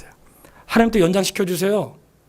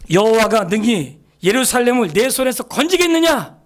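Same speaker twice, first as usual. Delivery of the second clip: mocking; 6 semitones higher, 3 dB louder than usual. Assyrian king taunting Judah, mocking voice. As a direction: sneer it like an enemy king taunting the city. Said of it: "조롱하면서".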